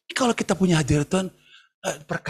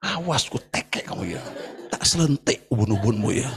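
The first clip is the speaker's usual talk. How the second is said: laughing mock threat; 8 semitones lower than usual. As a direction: tease a threat while laughing. Mengancam kakak pembimbing bercanda. (ancaman bercanda sambil tertawa)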